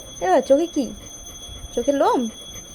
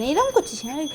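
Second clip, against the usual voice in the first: soft mock scold; 7 dB quieter than usual. Real, not acted.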